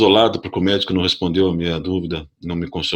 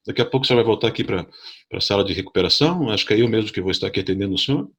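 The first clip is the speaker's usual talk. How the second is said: reassuring nurse; 4 semitones higher than usual. Retold or imitated. Nurse reassuring nervous patient.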